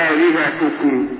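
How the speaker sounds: آلهتكم with a long opening and completed short vowels; correct full vowels. Shown as a demonstration. Sheikh correcting the interviewer's choice, آلهتكم said fully. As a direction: sound each syllable of آلهتكم evenly. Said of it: "لا،".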